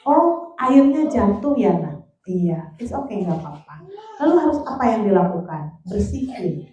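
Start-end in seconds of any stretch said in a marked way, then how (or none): 0.0-2.0 put-on slow, gently raised voice to a child; calm a child who spilled water, slowly; a parent soothing a child over spilled water, slow and gentle. Shown as a demonstration. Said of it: "Bangun rasa kemandiriannya". 2.3-3.9 soft, low comforting reply; a mother telling her child it's okay, soft and reassuring. Shown as a demonstration. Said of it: "Bangun rasa kemandiriannya".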